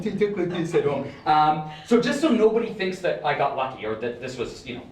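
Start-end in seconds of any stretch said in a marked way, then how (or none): 0.0-1.1 put-on voice for home viewers; imagined home viewers. Magician imitates how viewers at home sound, mocking voice. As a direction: mimic the doubters at home. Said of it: "They're like".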